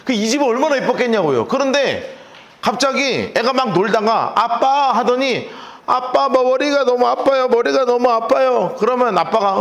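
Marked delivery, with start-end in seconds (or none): 4.3-8.8 put-on high, pained child's voice; a little boy whimpering to his father; voicing a hurting child, a bit higher. Child complaining of headache.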